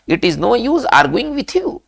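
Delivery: each English word spaced out very slowly; slow dictation. Shown as a demonstration. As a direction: spell it out slowly for the class to repeat. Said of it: "हमें वी फ़ोर का इस्तेमाल करना है".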